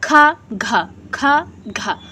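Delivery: खा and घा forceful and aspirated; aspirated demo. Shown as a demonstration. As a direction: push air hard on खा and घा. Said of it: "ये थोड़ा उच्च में है".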